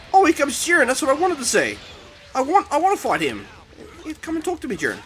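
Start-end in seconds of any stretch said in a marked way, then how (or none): 4.2-5.0 high teasing call; mock taunt. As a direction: goad him playfully. Taunting opponent.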